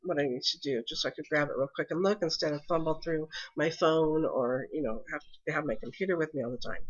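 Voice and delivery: stuffy, blocked-nose voice; congested voice. Real, not acted. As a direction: talk through a congested nose. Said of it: "excuse my voice ... I'm a little congested".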